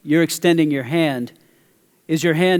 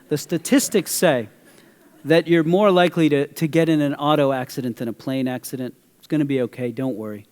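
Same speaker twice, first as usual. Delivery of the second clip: smooth reassurance; 3 semitones lower than usual. Retold or imitated. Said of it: "I said it more smoothly to her".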